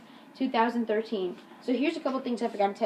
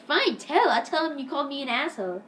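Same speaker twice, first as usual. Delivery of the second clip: higher-pitched defiant retort; mock defiance; 4 semitones higher than usual. Eric dares Jake to tell, imitated defiant retort. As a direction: dare them to do it, lightly acted.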